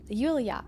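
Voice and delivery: Yulia said as YOOL-ya; "Yulia" in two syllables, YOOL-ya; tentative name pronunciation. Real, not acted. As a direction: try out "Yulia" as YOOL-yah. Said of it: "that's how you say it".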